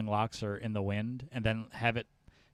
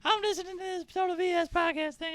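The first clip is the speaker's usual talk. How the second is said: stoner voice. Retold or imitated. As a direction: drift along like a baked stoner. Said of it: "so high right now".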